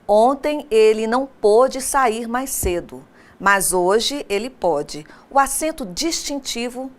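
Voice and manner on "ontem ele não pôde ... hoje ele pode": pôde and pode said slowly to contrast closed and open o; slow contrast demo. Shown as a demonstration. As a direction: read out ontem ele não pôde, mas hoje ele pode, slowly. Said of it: "Observe o exemplo". (exemplo lido devagar contrastando pôde e pode)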